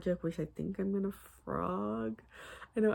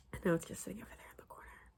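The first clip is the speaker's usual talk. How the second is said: whispering; 6 dB quieter, faster than usual. Real, not acted. Sheepish aside about abandoned sweater.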